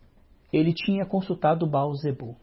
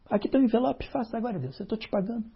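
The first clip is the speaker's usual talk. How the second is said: higher mocking voice of a bargaining believer; mock churchgoer; 6 semitones higher, faster than usual. Preacher mocks people offering God an envelope, higher mock voice. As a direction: ham up someone paying God off.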